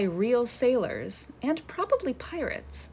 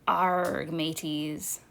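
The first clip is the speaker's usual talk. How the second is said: a lightly hammed-up Hollywood pirate accent, a touch lower; 5 semitones lower, much slower than usual. Shown as a demonstration. Educator demonstrating the pirate cliché to kids, mock pirate accent. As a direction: growl it like a movie pirate with a rolled pirate R. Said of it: "someone with a funny accent who says things like".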